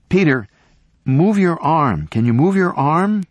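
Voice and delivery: loud high urgent call. A narrator's reading. Sarah urging Peter below to move, loud call. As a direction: urge him on from above. Calling down into crevasse.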